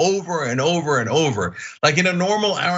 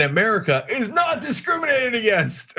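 emphatic exasperation; 8 semitones higher than usual. Real, not acted. Emphatic rant on who is discriminated against.

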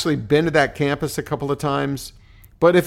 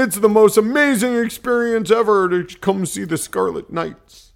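put-on weak Jersey accent, higher pitched; hint of a hyped Jersey booster; 7 semitones higher than usual. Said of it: "not doing our Jersey accent very well".

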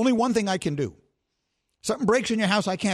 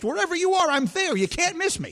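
hyped-up boast; 12 semitones higher than usual. Real, not acted. Hyping himself up.

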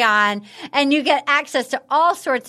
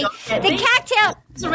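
high, slow New Zealand attempt; New Zealand accent; 5 semitones higher, much slower than usual. Shown as a demonstration. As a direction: try out a Kiwi accent. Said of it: "this is New Zealand. Ready?".

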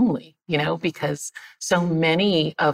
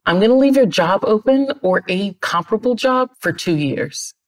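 higher, emphatic retold boss; mock insistence, pitched up; boss's disbelief; 5 semitones higher, 4 dB louder than usual. Boss to departing employee who won't stay down there, disbelieving.

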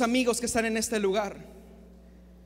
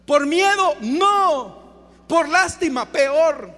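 loud, raised question-and-answer; emphatic rhetorical questions; 3 semitones higher, 5 dB louder, much slower than usual. Real, not acted. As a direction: fire questions and answer them forcefully. Preguntas retóricas con respuesta rotunda. (preguntas retóricas, fuertes y enfáticas)

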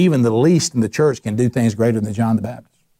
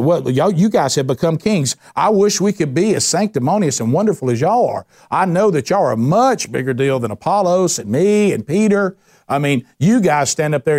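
higher, sing-song mock admiration; sarcastic praise; 5 semitones higher than usual. Paul ridiculing the Corinthians who judge him, sarcastic. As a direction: gush over them with false flattery. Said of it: "he's being sarcastic".

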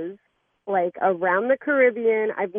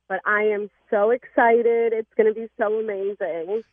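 happy and excited. Real, not acted. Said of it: "a beautiful smile of happiness".

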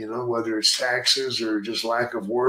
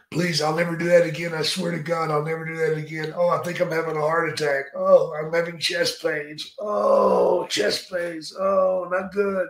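hammed-up begging, higher pitched; whiny, panicky heel pleading for mercy; mock pleading heel; 4 semitones higher than usual. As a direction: beg like a cowardly heel faking a heart attack.

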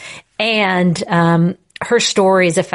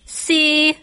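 Spanish si; 9 semitones higher than usual. Retold or imitated. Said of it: "He's like".

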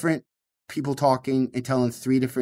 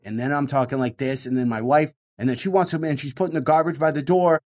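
cranked up a little; faster than usual. Shown as a demonstration. Comic demonstrates a bit for his wife joke, cranked up a little. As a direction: nudge the energy up as the bit builds. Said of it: "cranking it up a little bit".

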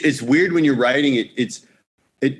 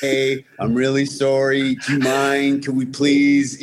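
overly polite Canadian. Retold or imitated. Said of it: "Canadian off the charts".

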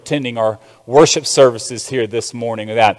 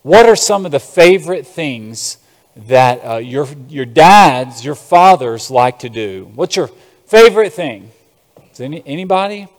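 muffled behind a mask; through a face mask. Real, not acted. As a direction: talk through a cloth mask. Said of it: "It is hard to talk with a mask on".

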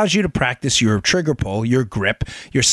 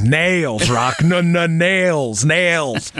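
trainer correcting Rocky; much slower than usual. Retold or imitated. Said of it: "He says".

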